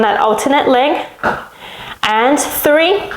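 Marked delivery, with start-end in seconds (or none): 2.0-3.1 breathless counting; puffing between words; out of breath. Real, not acted. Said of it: "You can hear I'm running out of breath".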